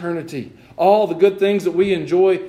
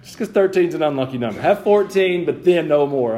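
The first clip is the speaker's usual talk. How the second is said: mock-firm parent, louder; parent giving in; 3 dB louder than usual. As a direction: lightly play a parent laying down terms. Plays parent giving in to child.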